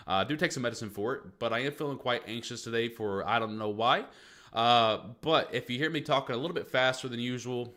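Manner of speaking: breathless, rushing the words; short of breath, hurrying. Real, not acted. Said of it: "I really can't catch my breath today".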